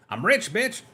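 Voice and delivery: high, put-on gloating voice; a jokey show-off squeal; mock gloating. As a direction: gloat like a cartoon rich guy. Showing off his new drink.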